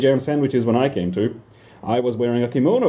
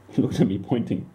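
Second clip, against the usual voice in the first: laughing retake. Shown as a demonstration.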